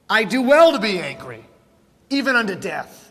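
defiant, emphatic retort; mildly insolent comeback; mouthy Jonah. Acted. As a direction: talk back with punched first words. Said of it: "gets a little mouthy with the Lord".

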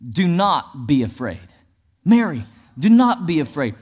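"not" leaned on firmly; stress on NOT. Shown as a demonstration. Pastor quoting the angel to Mary, emphatic "not". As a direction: put the weight on "not". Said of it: "all of these scriptures I'm about to read emphasize the word".

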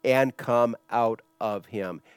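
slow, deliberate command; rebuking. Retold or imitated. Jesus orders the demon out, slow firm rebuke. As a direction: order it out one word at a time. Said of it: "Jesus rebuked him".

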